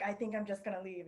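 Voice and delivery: meek retreat. Retold or imitated.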